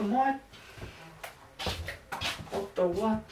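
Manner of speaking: put-on high-pitched Australian accent, playfully baffled. Distracting themselves while hunting for a topic, Australian accent. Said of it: "in an Australian accent".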